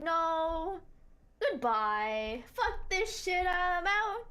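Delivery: high, loud panicked bailing out; panicked exit. Retold or imitated. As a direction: squeal it like running for safety. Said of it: "I was like".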